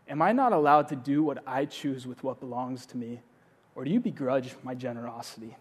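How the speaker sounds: soft, patient reply from the master; a master speaking kindly to a complaining worker; gentle master. Acted. Master gently answers ungrateful worker, soft and patient. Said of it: "and he says".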